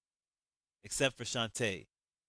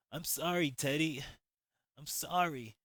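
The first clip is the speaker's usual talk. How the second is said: crying; 5 semitones higher than usual. Acted. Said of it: "while crying".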